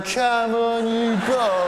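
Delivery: high, loud taunting call; defiant shout. Pretend. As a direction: dare the bomb, yelling out the window.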